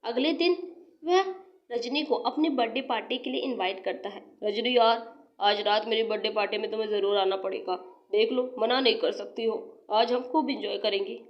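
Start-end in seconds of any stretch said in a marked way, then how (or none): 4.4-11.2 a lower, coaxing male voice; low-voiced smooth young man. Gagan pressing Rajni to come, low and coaxing. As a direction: talk her into it, low and easy.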